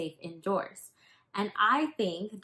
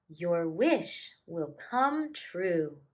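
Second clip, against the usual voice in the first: applauding gnu; slower than usual. Acted. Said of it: "applauded the gnu".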